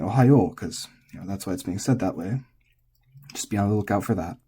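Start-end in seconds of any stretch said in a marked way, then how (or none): 0.0-0.6 Ohayo with a pushed final -yo; energetic last syllable. Shown as a demonstration. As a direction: put energy into the end of "Ohayo". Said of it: "there's more energy in saying".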